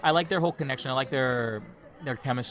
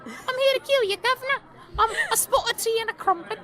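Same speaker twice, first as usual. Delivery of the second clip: mock British accent, much higher, slipping from New York. Mocking Ben Barnes's accent slipping into mock British. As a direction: parody a British actor losing his American accent. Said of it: "he'll be like".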